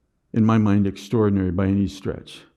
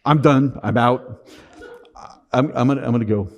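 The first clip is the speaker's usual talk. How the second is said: mock overwhelmed quitting. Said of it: "hold back your".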